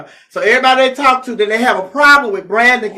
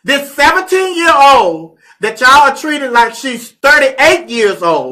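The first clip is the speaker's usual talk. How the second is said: emphatic rant; 3 semitones higher, 5 dB louder, slower than usual. Real, not acted. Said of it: "ranting opinion at listeners".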